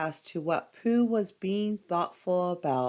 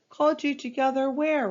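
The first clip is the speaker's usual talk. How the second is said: high, fast puzzled question; surprised; 8 semitones higher, faster than usual. A narrator's reading. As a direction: caught off guard, higher. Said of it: "responded Pooh".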